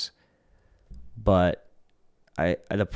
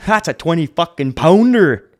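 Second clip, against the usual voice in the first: put-on Yukon accent; 7 semitones higher, 7 dB louder than usual. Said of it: "the way those guys sound".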